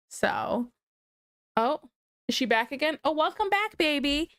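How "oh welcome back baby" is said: much higher cooing welcome. Real, not acted. Mother welcoming her daughter back, high cooing. Child returns to room.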